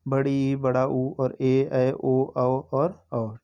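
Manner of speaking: "ऊ", "ऐ", "औ" each held long and slow, two beats per vowel; drawn-out long vowels. Shown as a demonstration. Teacher demonstrating long vowels to students, each held slow. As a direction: stretch every long vowel "औ" out slowly. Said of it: "दो मात्रा का समय लगता है".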